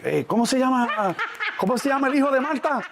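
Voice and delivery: high, quick laughing question; laughing Spanish aside. Retold or imitated. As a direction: laugh as you ask in Spanish. Mom asking name, laughing.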